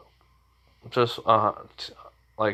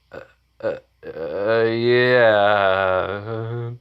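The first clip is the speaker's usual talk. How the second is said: put-on drunk man; much slower than usual. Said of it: "still drunk".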